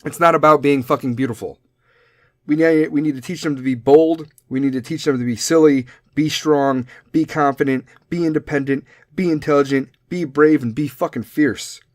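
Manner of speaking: rally the crowd with each word; rousing rally. Real, not acted. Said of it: "rousing call to teach daughters".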